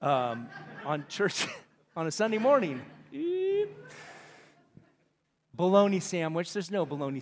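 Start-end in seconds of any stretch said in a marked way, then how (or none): 0.0-2.8 embarrassed laugh. Real, not acted. Laughing at his own slip. 3.1-3.7 tiny high mock-startled eep; embarrassed squeak. Real, not acted. Squeak after his swear slip.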